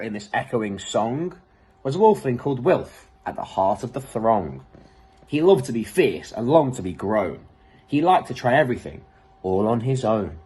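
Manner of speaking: lilting rhymed read-aloud; storybook narration. Acted. Reader narrating the wolf story in a lilting voice. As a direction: carry the rhyme along for children.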